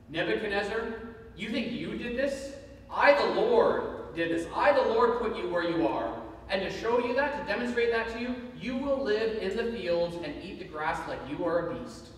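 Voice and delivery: booming divine rebuke, hammered out; a stern heavenly voice laying down judgment; God from heaven. Retold or imitated. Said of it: "a voice comes down from heaven and says".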